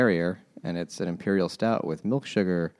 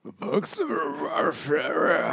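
mock thick Japanese accent; hammed-up Japanese accent; 9 semitones higher, slower than usual. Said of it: "with a thick Japanese accent".

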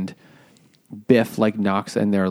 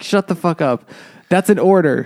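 raised, high-pitched commanding bluster; mock stern order; 7 semitones higher, 4 dB louder than usual. Willie ordering his crying son about, mock angry. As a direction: act out an angry father laying down orders.

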